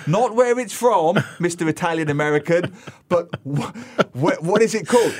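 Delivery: exaggerated talking-down, halting for emphasis; patronizing. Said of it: "I was really being patronizing".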